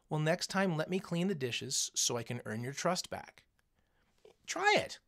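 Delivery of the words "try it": whispered urging. Real, not acted. Teacher urging students to try it, whispered. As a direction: whisper it like a secret dare.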